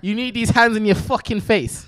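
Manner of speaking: slow threat in put-on British accent; British leprechaun. Leprechaun threatening the woman with peanut butter, slow British accent. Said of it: "All right, say British leprechaun".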